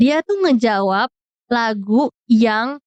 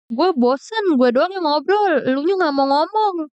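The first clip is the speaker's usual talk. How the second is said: higher, sulky whine; whiny complaint; 5 semitones higher than usual. Retold or imitated. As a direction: complain like a bored friend. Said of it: "kata dia". (merajuk dengan suara tinggi)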